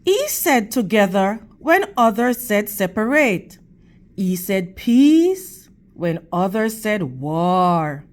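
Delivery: expressive storybook reading for the class; teacher's read-aloud voice; reading to children. Acted. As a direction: read it to the kids, clear and gentle.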